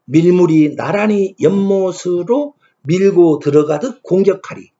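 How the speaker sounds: put-on slow, measured reading of the old verse line; slow verse recitation. Shown as a demonstration. Lecturer reciting the hyangga verse to students, slow measured recitation. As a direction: intone the poem line slowly, pressing on 밀고. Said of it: "세 번째 구절입니다".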